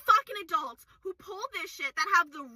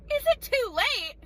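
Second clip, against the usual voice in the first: incredulous repeat; 4 semitones higher, slower than usual. Acted.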